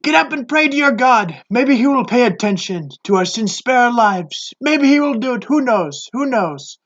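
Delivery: a captain hollering down into the hold; shouting captain. Acted. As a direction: bellow at the sleeper to get up and pray. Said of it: "He shouted".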